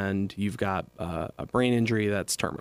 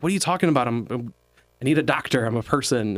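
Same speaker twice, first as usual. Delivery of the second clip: higher, louder mock Brooklyn protest; indignant robot imitated in a Brooklyn accent; 3 semitones higher, 3 dB louder, faster than usual. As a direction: protest lightly like a Brooklyn guy. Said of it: "like, very Brooklyn accent".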